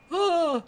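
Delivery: high mock scream. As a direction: cry out in pretend alarm. Imitates frightened public's scream.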